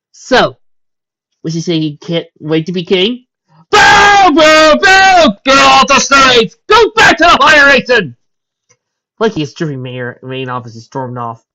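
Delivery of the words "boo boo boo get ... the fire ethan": high, loud heckling boos; booing shout. Acted. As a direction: jeer him off the stage. Crowd booing the prince.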